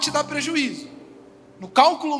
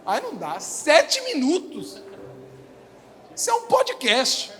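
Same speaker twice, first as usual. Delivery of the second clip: mock exasperation. Mock reaction to long voice message.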